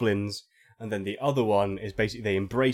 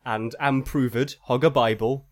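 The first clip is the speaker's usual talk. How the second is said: phonetic mock-archaic reading. Shown as a demonstration. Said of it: "in this kind of weird phonetic".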